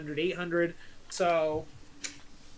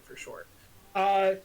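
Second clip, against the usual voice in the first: usual speaking voice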